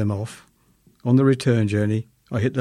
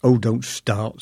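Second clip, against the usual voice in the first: impatient; slower than usual. Retold or imitated. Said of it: "said Missus H impatiently".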